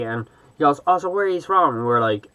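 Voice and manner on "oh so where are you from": pitched-up imitation of a chatty stranger; mock-friendly, higher-voiced question; chatty American guy. Shop guy asking Irish tourists where they're from, imitated chatty. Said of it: "being real chatty".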